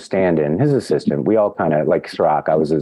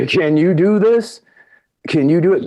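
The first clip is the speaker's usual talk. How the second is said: awed self-question; 11 semitones higher, 3 dB louder than usual. Retold or imitated. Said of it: "as a young actor, go".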